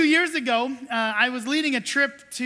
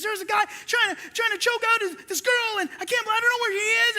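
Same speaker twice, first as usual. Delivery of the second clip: out of breath; 8 semitones higher, faster than usual. Retold or imitated. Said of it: "he's huffing and puffing".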